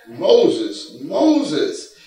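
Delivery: a lightly voiced God, calling Moses with a rising second call; a touch of a divine voice calling the name twice. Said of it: "God called unto him".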